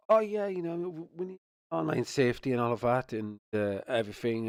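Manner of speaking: high, sing-song mock of hypocrites; mocking quote. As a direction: sneer at them in a silly high voice. Mocking people who post kids.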